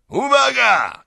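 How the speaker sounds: high, full-force warning yell; shouting. A narrator's reading. Owner warning the crowd before striking, shouting. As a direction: bellow it as a warning before the blow.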